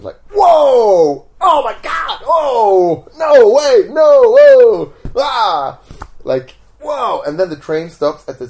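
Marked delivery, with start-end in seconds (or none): 0.3-5.8 loud, high-pitched shouts of disbelief; mock freak-out. Gang reacting to the card trick, hammed-up freak-out. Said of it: "freak out reactions". 6.8-7.2 high-pitched amazed cry; mock freak-out. Gang member amazed by card trick, mock freak-out. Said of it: "freak out reactions".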